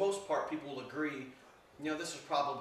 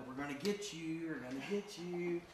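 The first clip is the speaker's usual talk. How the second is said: drawn-out, teasing seeker's chant; playful hide-and-seek call. Retold or imitated. Ghost hunter teasing a spirit in hide-and-seek, playful drawn-out call. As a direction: tease slowly, lightly mock-menacing.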